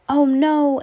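high, loud cry of dismay; trapped boy crying oh no; alarmed exclaim. Acted. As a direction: gasp it out in alarm. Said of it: "Antonio exclaimed".

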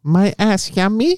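playful performed come-on, rising at the end; in-character title reading. Acted. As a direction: ham it up slowly, pitched high. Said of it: "You gotta read it in, in the, the tone".

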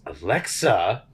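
slow, deadpan command to a smart speaker; mock serious tone. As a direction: drag out "dim murder room to half" with mock gravity. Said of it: "like, serious tone".

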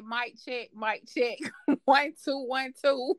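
soft, offhand mic-check chant; mock mic check. Host jokingly opening like a rap show, mock mic check. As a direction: test the mic like a hype DJ, quietly. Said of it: "should have said".

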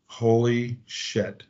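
slow, hushed holy shit as it dawns; quiet slow dawning shock; stunned realization. Retold or imitated. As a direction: let "Holy shit" sink in slowly and quietly. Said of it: "And I went".

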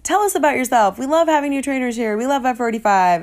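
a hint of an Instagram host; upbeat welcome. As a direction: play the eager greeter. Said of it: "I'm like".

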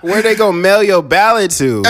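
loud question through laughter; cracking up as asking; laughing. Real, not acted. Joking, laughing loudly.

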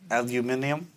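ALUMINIUM as al-you-MIN-ee-um; British-style pronunciation. Shown as a demonstration. Speaker offers friend disputed word, tentative al-you-MIN-ee-um. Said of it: "proper pronunciation is".

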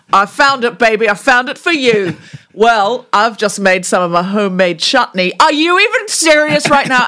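match the partner's excitement; enthusiastic. Shown as a demonstration. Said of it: "accept each other's ideas with enthusiasm".

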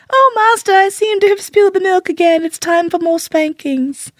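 very high, sing-song put-on voice; hammed-up, high-pitched false contrition; mock submissive slave. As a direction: play exaggerated helpless servility, slowing at the end. Mimics slave deliberately courting punishment.

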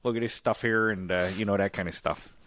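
lightly demonstrated Chicago accent. Shown as a demonstration. Cohost showing family hometown speech, Chicago accent. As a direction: slip back into Chicago talk, th as d. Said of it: "I fall back into it".

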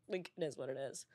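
talking quietly through crying. Real, not acted. To her friends, insisting she's okay while crying. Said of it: "'cause I'm fucking crying".

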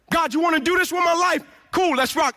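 eager shouts to God, fired up; excited call. Retold or imitated. Preacher telling God let's rock, excited shout. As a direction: shout it like you're all in. Eager surrender to God's plan.

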